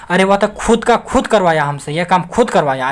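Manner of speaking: खुद hit hard each time, easing off toward the end; insistent mock protest stressing खुद; mock shout. Shown as a demonstration. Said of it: "चिल्ला के बोलेंगे".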